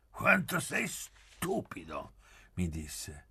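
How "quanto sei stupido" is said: high, drawn-out teasing; lightly mocking, stretching the words out high; amused mockery. A narrator's reading. Pieretto teasing his slow-witted friend, amused mockery. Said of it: "in quel suo modo tra scemo e divertito".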